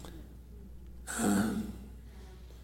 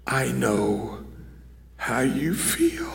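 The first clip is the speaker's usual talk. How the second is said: hushed whisper; 2 semitones lower, 9 dB quieter, much slower than usual. Acted. Jesus speaks, hushed and intimate.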